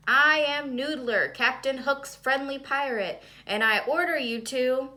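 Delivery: loud, high, hammed-up pirate declaration; a schoolboy booming his pirate role on stage; pirate stage line. Sam acting a pirate on stage.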